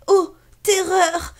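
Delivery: slow, dramatic cry of fright; mock terror. A narrator's reading. Narrator dramatizes the scare, slow and hammed-up. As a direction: gasp it out for the children.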